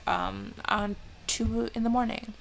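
a crack in the voice. Real, not acted. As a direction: voice breaks mid-word. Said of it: "my voice just cracked".

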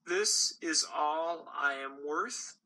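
a discarded candy asking why; dejected gumball. Acted.

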